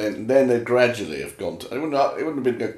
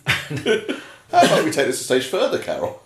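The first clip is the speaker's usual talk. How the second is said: laughing, mock seductive; 6 semitones higher, slower than usual. Shown as a demonstration. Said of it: "I didn't do that as a question".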